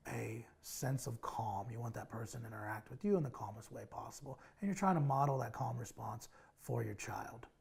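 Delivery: soothing demonstration of a calm parent voice; calm, low voice. Shown as a demonstration. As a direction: model the calm you want from the child. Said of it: "you're probably gonna lower your tone of voice".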